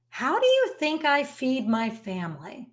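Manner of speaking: quiet, even answer without heat; calm reply. Retold or imitated. Artist calmly answering the angry shaper, quiet and steady. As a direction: calmly turn the question back on him. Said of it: "said very calmly".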